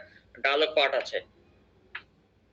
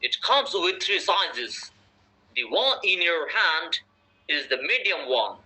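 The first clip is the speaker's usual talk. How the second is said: British English accent; much slower than usual. Shown as a demonstration. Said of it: "এবার আরেকটা অ্যাকসেন্টে পড়বো".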